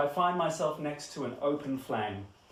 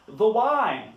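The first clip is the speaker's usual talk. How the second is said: loud, high theatrical announcement; grand reveal; 6 semitones higher, 9 dB louder than usual. Acted. Host revealing the most important part of the show, grand reveal. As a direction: proclaim it like the star attraction.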